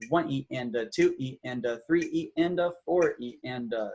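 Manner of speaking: evenly subdivided rhythmic count; steady metronomic syllables; sixteenth-note counting. Shown as a demonstration. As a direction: count four even syllables to each beat. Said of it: "subdivided it into sixteenth notes".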